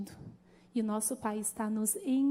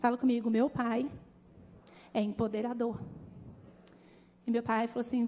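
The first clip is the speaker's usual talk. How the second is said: ordinary talk, nothing marked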